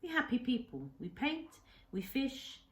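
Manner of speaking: lightly voiced old man in broken English, grave and sorrowful; a hint of an old Japanese hermit telling his grief; Kensuke's voice. Old islander speaks to the boy.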